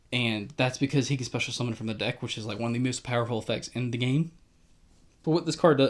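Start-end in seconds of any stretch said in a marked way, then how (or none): 5.2-5.9 hiccuping mid-sentence; hiccups. Real, not acted. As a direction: talk through the hiccups. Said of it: "I'm hiccuping a lot".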